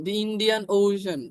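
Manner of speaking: drawn out, with "The" said as "দি"; teacher repeating the example; slow example again. Shown as a demonstration. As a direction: repeat "The Indian Ocean" slowly. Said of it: "দি বসবে".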